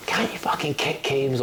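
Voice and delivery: a mild mock dig at a team-mate; mock angry jibe. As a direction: jab at him like a feisty teammate. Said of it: "had a right pop at him".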